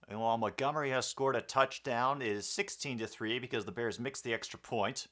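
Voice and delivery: energetic sportscaster call; play-by-play commentary. Acted. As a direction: call it like a live broadcast. Calls the game play-by-play.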